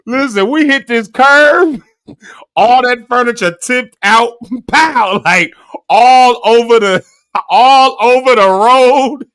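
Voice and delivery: slow, high laughing telling; cracking up while telling it. Real, not acted. Telling the hosts how the furniture fell out, laughing.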